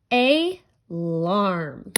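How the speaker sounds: "alarm" loud and drawn out, AY... LARM; emphatic teacher's ay, larrrm for "alarm"; sounded-out syllables. Shown as a demonstration. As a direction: stretch both halves of "alarm" with a gap between. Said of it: "I hear".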